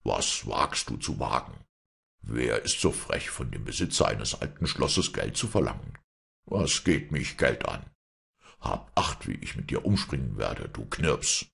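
deep, menacing giant; low giant voice. Acted. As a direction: threaten like a brute giant. Giant threatens the servant.

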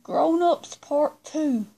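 slow, deliberate, each word apart; slow it right down so the phone gets it; talking slowly to a voice assistant; slow and clear for Siri. Real, not acted. Third retry to Siri.

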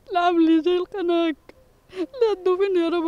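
crying out in distress; angry crying. Real, not acted. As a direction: sob through the words. Same lament replayed.

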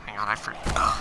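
talking through a burp; burping the words. Real, not acted. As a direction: burp mid-sentence. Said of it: "I'm burping a lot tonight".

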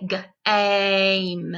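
G-, aim split into onset and rime; G- then aim, slowly pulled apart; segmented word. Shown as a demonstration. Teacher splitting a word for young learners, sounded out. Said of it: "Long A".

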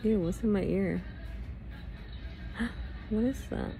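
startled gasp, then disgusted; sudden disgust at a gross find. Real, not acted. Finds something gross in ear.

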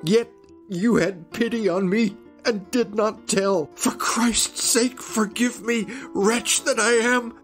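high, loud, anguished cry. Acted. Makar beating his head on the floor, anguished cry.

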